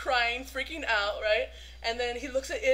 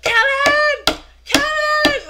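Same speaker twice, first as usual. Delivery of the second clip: loud, high yell of a name; calling out; 16 dB louder, much slower than usual. Retold or imitated. Friend hitting the table for his attention, loud yelling. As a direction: bellow for his attention, pitched up.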